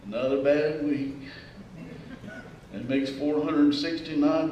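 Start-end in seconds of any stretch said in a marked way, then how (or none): 0.1-1.3 low, glum complaint; complaining. Acted. Complainer answering a cheery greeting, glum and low. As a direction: sigh it out like a chronic complainer. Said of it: "Just always complaining".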